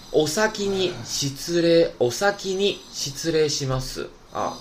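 お先に失礼 said slowly, holding the long vowel; long vowel demo. Shown as a demonstration. Teacher slowly modelling the long vowel for students. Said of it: "就有个长音".

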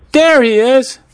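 high-pitched excited cry; story character's high, urgent call. A narrator's reading. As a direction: call it out high, spotting the runaway. Story character spots runaway gecko.

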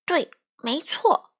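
slow, teasing agreement meant to frighten; mock scary. A narrator's reading. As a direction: drag it out to spook him. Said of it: "花袜子吓唬他说".

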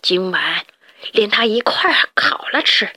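mild mock snarl; vicious threat. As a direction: threaten like a cruel boss. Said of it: "普老大恶狠狠地说".

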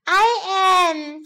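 put-on high child voice, sweetly pleased; sweet little bunny. A narrator's reading. Little bunny answering adoring Mummy, sweet high pipe. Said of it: "smiling sweetly".

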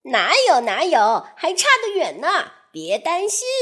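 excited. Acted. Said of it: "首领兴奋地说着".

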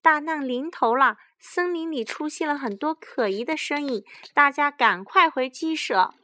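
high, loud alarm call; urgent storybook panic; panicked shout. A narrator's reading. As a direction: warn everyone of disaster and hurry them inside. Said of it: "卡利姨妈惊慌地大喊".

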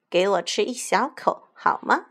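little begging question, rising at the end; pleading. Acted. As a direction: coax for just a small bite. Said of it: "小凯莉继续央求". (轻轻央求)

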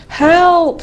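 high, alarmed little call; scared cry for help. A narrator's reading. Eddie lost in the dark wood, scared cry for help. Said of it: "said Eddie. "I'm scared already".

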